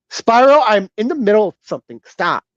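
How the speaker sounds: high, exasperated call, then a quick complaint; heated. Real, not acted. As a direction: scold a pet that keeps interrupting. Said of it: "another reason why I'm getting heated".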